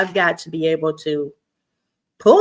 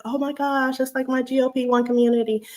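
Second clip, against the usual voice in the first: fast, gushing and a little higher; softly gushing with bubbly delight; bubbly excitement; 5 semitones higher, 3 dB quieter than usual. Retold or imitated. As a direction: gush like a proud teacher. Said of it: "I got all bubbly".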